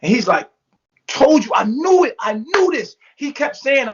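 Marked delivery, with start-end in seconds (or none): 1.1-3.0 retold emotional outburst. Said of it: "he's getting emotional".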